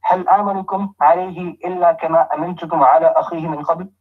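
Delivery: rapid, even recitation of the verse; fast Arabic recital; quick Quran recitation. Acted. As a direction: run through the Arabic verse briskly.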